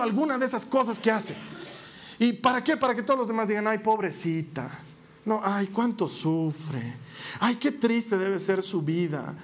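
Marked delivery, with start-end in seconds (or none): 3.7-9.4 slow, sighing mock sympathy; hammed-up pitying sighs. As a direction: drag out the pity, sighing ay. Mocking people pitying the victim.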